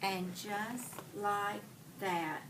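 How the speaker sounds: reading a picture book to the class; story reading. Acted. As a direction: read it out slow and expressive for the children. Teacher reads picture book aloud.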